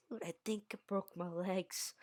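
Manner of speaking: hushed high whisper. Retold or imitated. Kid whispers to a friend that his legs are broken, hushed. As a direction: whisper it so the teacher won't hear.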